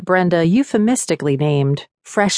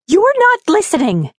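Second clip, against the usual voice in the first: shouting ghost; 14 semitones higher, 4 dB louder than usual. A narrator's reading. Ghost shouting at stubborn Brenda.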